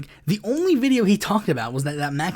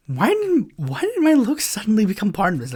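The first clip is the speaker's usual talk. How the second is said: indignant disbelief; 4 semitones higher, 3 dB louder than usual. Real, not acted. Outraged at insult to looks.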